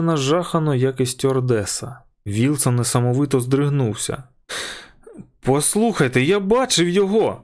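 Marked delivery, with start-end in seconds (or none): 5.4-7.4 cracking shout. A narrator's reading. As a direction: shout it until the voice breaks. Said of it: "крикнув він".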